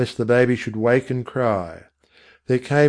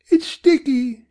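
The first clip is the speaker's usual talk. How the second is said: high, alarmed mother; frightened mother; 4 dB louder, slower than usual. A narrator's reading. Mother discovering blood on the stick, alarmed. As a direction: recoil as she says it.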